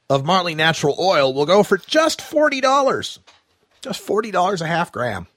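dry mock sales pitch; sarcastic. Real, not acted. Host sarcastically quoting oil prices to listeners. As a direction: pretend it is a great bargain. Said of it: "I'm being very sarcastic about that".

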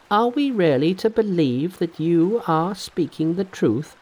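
brisk Monkey King, pitched high; cocky, impatient hero cutting in. Acted. Monkey doubts.

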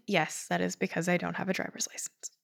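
sheepish whispered confession; whispered aside. Real, not acted. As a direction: drop to a whisper, a bit embarrassed.

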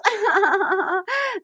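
mock sobbing, pitched high; imitated crying. Host imitating the woman before her apology, mock crying. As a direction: fake little burst of high sobs. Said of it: "She goes".

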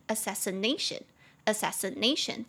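"assassination" stressed on NA; fourth-syllable stress. Shown as a demonstration. Teacher showing the shifted stress in assassination, fourth-syllable stress. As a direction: move the weight to "na" in "assassination". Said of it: "中音节变到第四个音节".

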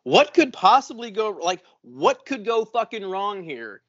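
mock uneasy sarcasm; mock worried. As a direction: wonder aloud in alarm. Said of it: "I was like".

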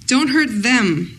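slow, laughing dramatic quote; mock dramatic quote. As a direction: ham up the line slowly. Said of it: "Who do you guys think them is?".

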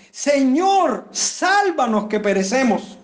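a desperate cry for help, high on Señor then slow; desperate plea. Retold or imitated. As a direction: plead as if the boat were sinking. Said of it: "estaban totalmente desesperados". (súplica desesperada, aguda en "Señor" y luego lenta)

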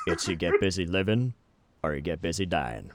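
a hint of wise old narrator; bad Morgan Freeman. Cohost voicing the jewel to Kagome as Morgan Freeman. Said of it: "a bad Morgan Freeman impression".

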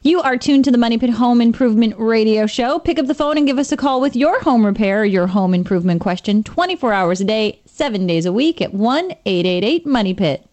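upbeat station ID read; radio announcer. Acted.

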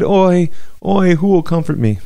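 high, loud mournful cry; keen it back to her in grief; wailing lament. Retold or imitated. Jeremiah echoes the mourning woman's cry, high loud wail. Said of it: "And I cried".

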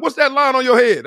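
put-on high-pitched little boy asking; high kid voice. Son asking dad about forehead line, high childlike voice.

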